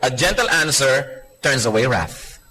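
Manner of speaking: "gentle" drawn out, the verse read slowly; stress on gentle. Shown as a demonstration. Preacher quotes the Bible to the congregation, weighting "gentle". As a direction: linger on "gentle", quoting scripture slowly. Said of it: "Sabi sa Bible".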